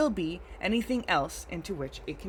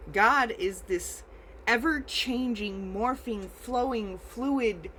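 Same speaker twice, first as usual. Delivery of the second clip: rising, impassioned sermon voice, higher; passionate preaching; 4 semitones higher than usual. Real, not acted. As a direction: preach it with mounting fervor. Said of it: "Got passionate there".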